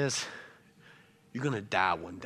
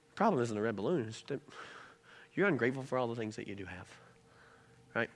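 calm reasoning. Retold or imitated. Mother reminding son what he already has, calmly.

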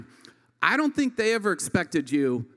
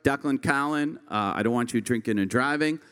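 dad's speech; 2 semitones lower than usual. Retold or imitated. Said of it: "I'm gonna be like".

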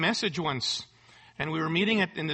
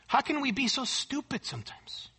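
soft, higher-pitched gentle appeal; gently; 5 semitones higher, 5 dB quieter than usual. Retold or imitated. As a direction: imitate a pastor's gentle, soft-spoken plea. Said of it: "he gently says this".

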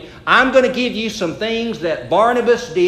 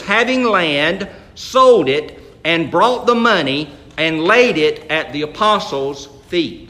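scripture reading; 2 semitones lower than usual. Shown as a demonstration. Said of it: "it says".

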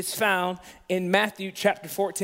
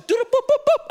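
high, loud mock bush noises; imitated rustling noise; 13 semitones higher, 4 dB louder than usual. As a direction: imitate spooky sounds in the bushes. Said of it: "I start hearing noises in the bushes".

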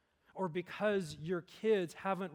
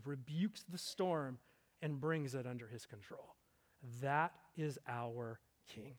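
softer, lower, reverent sermon delivery; solemn preaching; 4 semitones lower, 3 dB quieter than usual. Real, not acted. Preacher telling of Jesus calming the storm, solemn preaching. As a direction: bring it down to a measured, weighty hush.

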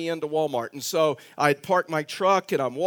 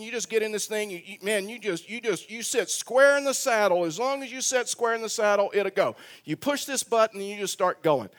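higher-pitched, lightly voiced helpful man; walk a novice through it, pitched up; eager instructor; 4 semitones higher than usual. Cart man giving a lesson on riding the cart, retold eager coaching. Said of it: "he started giving me a lesson".

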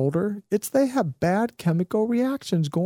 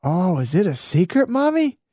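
put-on innocent little girl; 2 semitones higher, 4 dB louder than usual. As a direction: ask it like a curious little girl. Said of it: "the little girl goes".

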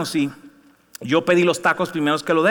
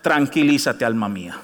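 1 calming own soul; 7 semitones lower than usual. Shown as a demonstration. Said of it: "decirle a nuestra alma".

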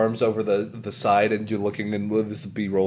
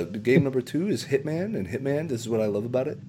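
terrible Video Game Donkey; 3 semitones higher, 4 dB quieter than usual. Retold or imitated. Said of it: "I'm gonna do a terrible Donkey impression".

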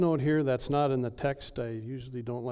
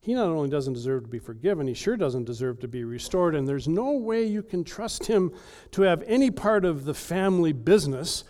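higher and louder, climbing to an outraged cry; building indignant rant; 5 semitones higher, 6 dB louder than usual. Acted. Older brother ranting at his father, rising to outrage. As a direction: build to a shout on eat with him. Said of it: "the older brother's mad about".

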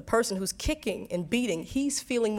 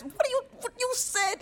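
mother's voice. Retold or imitated. Mother's question voiced in story.

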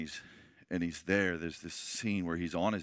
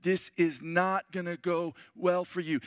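calm pleading; 9 semitones higher than usual. Retold or imitated. Tom Hanks begging the pirate to surrender, earnest plea. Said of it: "He goes".

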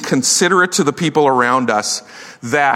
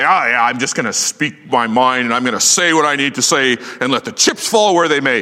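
careless bluster. Retold or imitated. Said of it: "just say".

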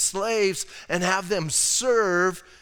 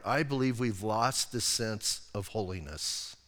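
sincere; 7 semitones lower, 5 dB quieter than usual. Real, not acted. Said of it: "speaking from my heart".

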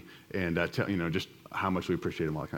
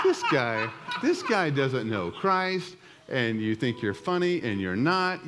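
mock-exasperated, pitch jumping high, slow on doesn't know Christ; exasperated wife; 4 semitones higher, slower than usual. Husband imitating his exasperated wife over the bad joke. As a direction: imitate your wife scolding you, laughing through it. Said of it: "my wife is like".

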